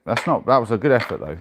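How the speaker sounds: loud, emphatic "That's not, that was a good effort". Real, not acted. After missing the dice roll, a loud rallying consolation. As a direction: push it out, cheering yourself up.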